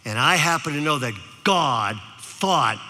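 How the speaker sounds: put-on slow, low, gentle old man; kind old man. Old man comforts the crying boy, slow and gentle. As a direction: reassure him slowly.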